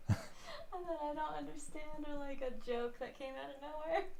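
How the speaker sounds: high, excited impression of her housemate; excited imitation. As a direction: mimic someone bursting in with a crazy idea. Imitating housemate's sudden outbursts.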